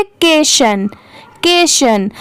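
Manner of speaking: "केशन" as kay plus shun; word ending sounded out. Shown as a demonstration. Teacher modelling how the ending is read, "केशन" as kay-shun. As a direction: say "केशन" clearly, two syllables. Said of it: "इसे क्या पढ़ेंगे".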